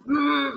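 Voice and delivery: brief imitation of a ringing tone; imitated ear ringing. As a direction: hum like ringing ears. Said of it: "my ears started ringing".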